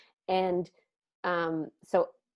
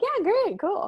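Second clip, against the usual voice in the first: high, louder mock enthusiasm; squeaky retold okay, pitched way up; overeager agreement; 14 semitones higher, 7 dB louder, slower than usual. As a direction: agree too brightly, voice jumping up. Retold awkward reply to husband.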